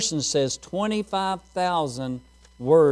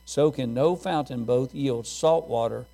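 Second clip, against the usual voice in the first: measured King James reading to the church; scripture reading. Acted. Pastor reading James to the congregation, measured and solemn. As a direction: read the verses with weight.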